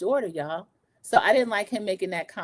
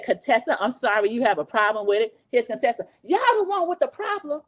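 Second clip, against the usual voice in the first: sweet-sassy clapback; 3 semitones higher than usual. Retold or imitated. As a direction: smile through the insult. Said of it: "That's how she was talking".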